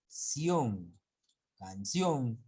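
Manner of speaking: canción with weight on "ción"; stress on final syllable. Shown as a demonstration. Teacher showing the ending, stressing "ción" in canción. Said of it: "la mayor fuerza de voz está en la última".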